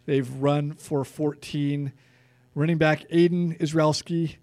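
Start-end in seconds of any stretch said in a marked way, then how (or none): 2.5-4.3 said really fast. Real, not acted. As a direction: rush through Israelski. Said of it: "I said that really fast".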